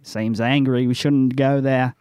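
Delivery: put-on understated joke Australian accent; lightly put-on, poor Australian accent; bad Australian accent. Monster hunter warns his party, bad Australian accent. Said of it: "you'll not know his real voice".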